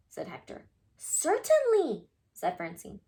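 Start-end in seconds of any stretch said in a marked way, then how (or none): 1.0-2.1 prim reply. Acted. Francine answers Wilbur.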